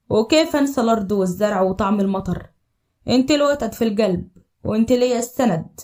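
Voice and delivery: low, tender recited love poem; warm manly voice. Acted. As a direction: improvise verses from the heart, low and warm. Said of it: "بصوت رجولي دافي". (شعر حب بصوت رجولي واطي ودافي)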